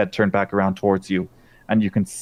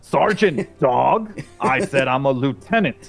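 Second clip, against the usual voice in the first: offended dog; 3 semitones higher, slower than usual. Acted. Dog lieutenant corrects Dispatch's wrong rank, indignant. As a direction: bristle at the insult.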